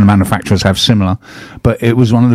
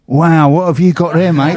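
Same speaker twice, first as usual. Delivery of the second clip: higher, cheery mock Cockney copper; mock Cockney accent; 7 semitones higher than usual. French traffic cop admiring the speeder's car, in mock Cockney. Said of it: "I don't think they said it in that accent".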